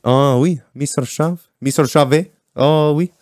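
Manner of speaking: lightly put-on French accent; mock French accent. Host switching the listener's name to French accent. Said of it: "uh, French".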